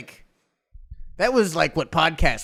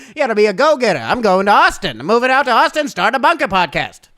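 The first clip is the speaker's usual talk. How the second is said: mock podcast host; 3 semitones higher, 5 dB louder than usual.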